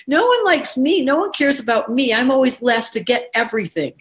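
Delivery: high whine that settles down; self-pitying complaint, easing off; whining voice. Retold or imitated. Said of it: "That's the whining voice of the Cancer".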